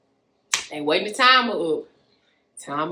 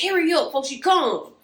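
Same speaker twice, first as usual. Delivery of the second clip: imitating urgent whisper; 8 semitones higher than usual. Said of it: "He's like".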